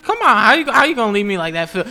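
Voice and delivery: high, loud, indignant plea; loud protest. Acted. Kid protesting as King Phil leaves, loud plea. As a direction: call after him in mock outrage.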